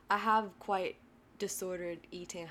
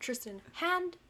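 talking to a dog; 10 semitones higher than usual. Pretend. Giving a dog commands.

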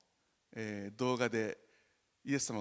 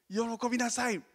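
higher, slow and louder invitation; joyful Jesus; 10 semitones higher, 5 dB louder than usual. Retold or imitated. Jesus inviting the disciples into his joy, slow and lifted. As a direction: stretch out the joy, slowly. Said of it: "って".

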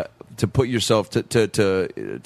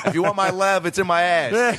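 a higher camp butterfly line; queen butterfly; 6 semitones higher, slower than usual. Acted. Host joining the bit, voicing the queen butterfly higher. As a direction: purr it like a diva. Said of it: "a queen butterfly".

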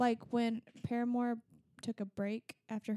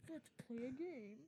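creepy villain voice; 2 semitones higher, 15 dB quieter than usual. Retold or imitated. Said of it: "She tried to do the voice".

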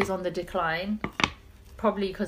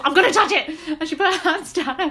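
higher and louder, laughing through it; 8 semitones higher, 7 dB louder, faster than usual. Retold or imitated. Retelling her friend's bold line, laughing hard. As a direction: quote her while cracking up.

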